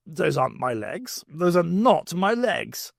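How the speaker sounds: slowing, stunned insistence; slow disbelief. Acted. Brigadier staring at his own legs, slow stunned disbelief. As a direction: spell it out in disbelief.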